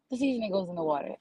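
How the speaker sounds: sigh, then rush it out; exasperated aside. Real, not acted. Comic tired of Dallas seafood, sighing and quick. Repeats seafood rule for emphasis.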